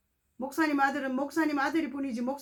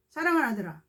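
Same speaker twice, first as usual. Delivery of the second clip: preacher delivering a loving prophecy; tender prophetic word; 4 semitones higher than usual. Retold or imitated. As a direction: reassure him as God's voice. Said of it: "제 입에서요".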